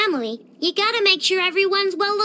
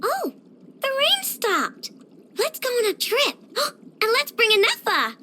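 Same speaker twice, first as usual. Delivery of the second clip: delighted excitement; 4 semitones higher than usual. Acted. Delighted the rain stopped.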